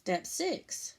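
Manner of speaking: measured, step-by-step read-aloud; walk the kids through each step clearly; reading instructions aloud. Acted. Teacher reading the cup project steps to her class, careful read-aloud.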